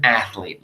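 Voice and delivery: athlete said as ath-lete, no extra vowel; two-syllable athlete. Shown as a demonstration. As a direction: join th straight to l in athlete. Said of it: "We get rid of that first E".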